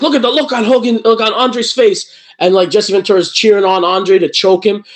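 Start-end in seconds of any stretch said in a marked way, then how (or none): 0.0-2.1 Vince McMahon commentary. Retold or imitated. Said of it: "Vince McMahon's like".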